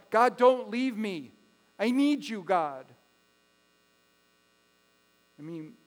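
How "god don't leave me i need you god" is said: a touch of voiced pleading, louder and slowed. Preacher voicing David pleading with God, mild mock plea. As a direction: beg God not to leave, lightly acted. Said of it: "he's pleading with God".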